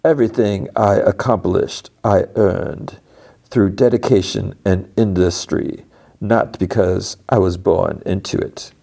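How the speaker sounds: measured, deliberate self-defence; formal, emphatic retort; lightly voiced proud Cobell. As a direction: imitate a proud manager, weighing each phrase.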